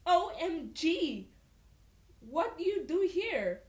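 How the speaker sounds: loud, high mock Russian accent. Sasha surprised to see her friend, excited Russian accent. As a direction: squeal it in a put-on Russian accent. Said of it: "in that Russian accent she had".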